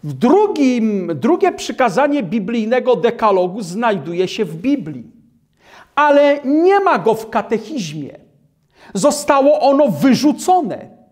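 ordinary talk

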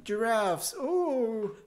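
slow mock African accent; lightly put-on African accent. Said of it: "is that an African accent?".

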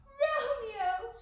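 high, loud, horrified cry; gasped in horror. A narrator's reading. Juliet realizing Romeo took poison, gasped in horror. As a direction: let the name burst out in shock. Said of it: "she gasped in horror".

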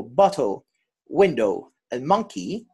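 "bottle", "window", "monkey" stressed on their first syllables. Shown as a demonstration. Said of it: "the stress in the syllables".

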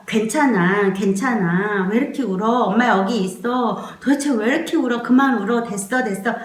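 mock impatient comforting, rattled off; rushed, fretful parent demonstration; hurried soothing. Shown as a demonstration. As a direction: hurry the crying baby into stopping. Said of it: "이렇게 되면 이 손이 급해져요".

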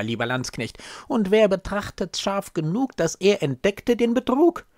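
put-on urgent old nurse. Old nurse urges a bold plan.

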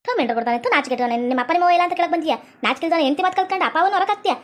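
acted grandmother's tirade; cursing scold with swooping pitch. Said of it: "ಏನ್ ಹಂಗ ಬೈತಿ?".

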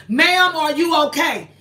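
retelling an insistent check on a stranger; insistent retold question. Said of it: "She wouldn't say nothing".

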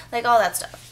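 ordinary delivery

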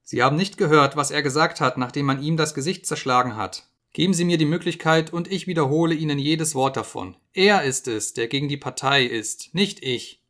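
high, loud panicked pleading; frantic accusation. Acted. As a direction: throw the blame in desperation. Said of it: "rief er".

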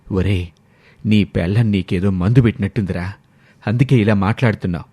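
stern father. Acted.

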